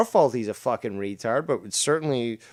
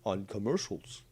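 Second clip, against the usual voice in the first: louder mock introduction in a put-on voice; Doctor Earl; 5 dB louder than usual. Co-host posing as Doctor Earl the Geico caveman, put-on voice. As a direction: impersonate a speaker introducing himself, loudly. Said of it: "I'm Doctor Earl".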